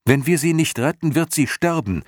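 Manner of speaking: high, fast pressing plea; urgent. Acted. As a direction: push it out urgently like a desperate boy. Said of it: "setzte Atreyu dringlicher hinzu".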